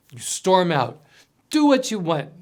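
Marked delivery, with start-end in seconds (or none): 1.5-2.3 raised, higher shout at the husband; shouting back. A narrator's reading. Wife storming out shouts back at her husband, loud. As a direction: fire it back at him, loud. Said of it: "you shout back".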